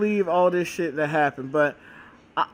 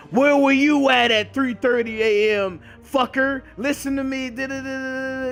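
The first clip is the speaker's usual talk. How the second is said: mock cop interrogation; 4 semitones higher than usual.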